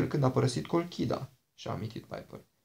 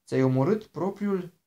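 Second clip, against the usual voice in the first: slow, higher and louder, stunned echo; startled disbelief; 5 semitones higher, 5 dB louder than usual. A narrator's reading. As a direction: repeat it back, shaken and slow. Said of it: "a tresărit Jason".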